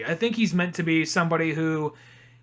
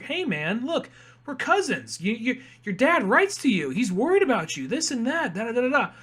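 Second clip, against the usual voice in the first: higher, coaxing mock plea; retold pleading; 5 semitones higher than usual. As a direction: reason with a cousin, tailing into singsong filler. Cousin pleading in retold scene.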